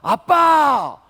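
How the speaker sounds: put-on high, loud toddler's teasing; child taunting. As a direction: play the three-year-old sticking his tongue out at dad. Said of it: "날 쳐다보면서".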